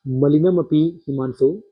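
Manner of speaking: slow recitation of "मलिनम अपि हिमांशो" as one unit, then stop; verse phrase reading. Shown as a demonstration. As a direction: read "मलिनम अपि हिमांशो" slowly up to the caesura. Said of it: "यहाँ तक पढ़ना आपको".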